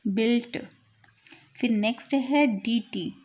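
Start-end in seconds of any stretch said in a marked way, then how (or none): 0.1-0.6 बिल्ट ending in a crisp t sound; German dt as t. Shown as a demonstration. Teacher modelling German word बिल्ट with a final ट. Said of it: "यहाँ ट की sound आती है".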